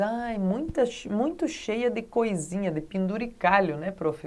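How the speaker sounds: imitação leve de aluno, começando mais agudo; aluno reagindo. Retold or imitated. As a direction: imite de leve um aluno comentando com a professora. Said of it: "na aula do barroco você entende". (comentário de aluno levemente encenado)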